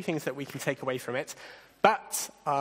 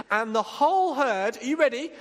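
dramatic excited telling; 6 semitones higher, 3 dB louder than usual. A narrator's reading. Dramatic herd rush scene.

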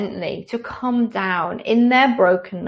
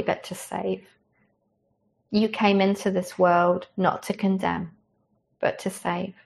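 lowered, reverent pastoral prayer. Acted. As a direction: pray gently over the congregation. Leads closing prayer.

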